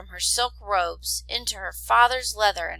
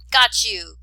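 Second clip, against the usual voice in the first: gleeful, louder catch; playful cry; 2 semitones higher, 8 dB louder than usual. Acted. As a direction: call out happily as you catch him. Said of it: "cried Mulan".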